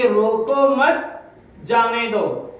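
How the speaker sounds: "روکو مت" as one rising unit, break, then "جانے دو"; pause after مت. Shown as a demonstration. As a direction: run "روکو مت" together and pause before "جانے دو". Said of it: "اور یہاں مت کے بعد".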